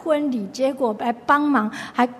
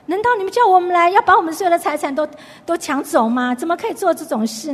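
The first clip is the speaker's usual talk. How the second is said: retold anger; 5 semitones higher than usual. Samson's wife protesting to the thirty companions, indignant. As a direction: voice the wife's outrage, half-acted. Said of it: "他生气了".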